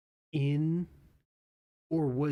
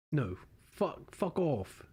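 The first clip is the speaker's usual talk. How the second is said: Australian accent try; 3 semitones higher, slower than usual. Shown as a demonstration. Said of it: "It's hard to do fuck off, like, as an Australian".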